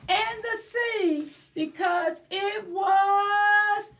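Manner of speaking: put-on lively read-aloud for children; story time narration. A narrator's reading. Librarian reading to children, animated storybook voice. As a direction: read it like a picture book to little ones. Reads a picture book aloud.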